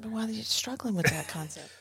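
whispered aside. Real, not acted. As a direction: whisper it teasingly. Teasing aside to co-host.

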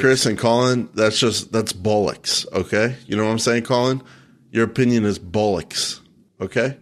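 lightly put-on British accent, half joking; a hint of cocky British accent to tease Colin; mock British accent. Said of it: "I've got a great British accent".

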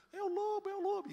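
high, loud "é o lobo" alarm; mock panic of a fleeing hireling; panicked cry. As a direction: shout the warning and run.

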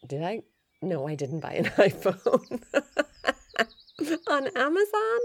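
laughing through the denial, voice leaping up; laughing disbelief. Real, not acted. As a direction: laugh it off as ridiculous.

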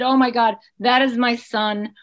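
restrained cry of alarm; retold scream. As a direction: plead in alarm, holding back the full scream. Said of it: "I was screamed".

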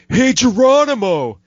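high, loud jeering redneck call; mocking racist redneck. Retelling racist rednecks taunting Woody Strode, mock jeer. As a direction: taunt him like a sneering redneck. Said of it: "and they're like".

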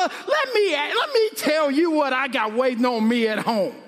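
laughing through a mock complaint; laughing mockery. Preacher to congregation, laughing mock story. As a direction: poke fun while laughing. Mocking someone's sob story.

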